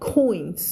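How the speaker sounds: "coins" with a clear oy glide and final ns; crisp demonstration of "coins"; correct "coins". Shown as a demonstration. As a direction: model "coins" slowly with the oy sound. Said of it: "อันนี้อ่านว่า".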